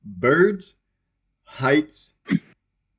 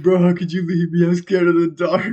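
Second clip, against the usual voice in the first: upset plea; 5 semitones higher than usual. Retold or imitated. Re-enacting own upset in the dark.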